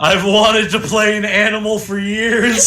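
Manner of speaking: delighted laughing confession; excited laughing. Real, not acted. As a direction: gush through laughter.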